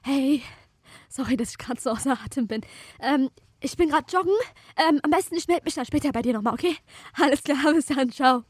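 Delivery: faking being out of breath while jogging; while running. Shown as a demonstration. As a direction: talk as if mid-jog, panting. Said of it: "Ich lauf grad auf der Stelle".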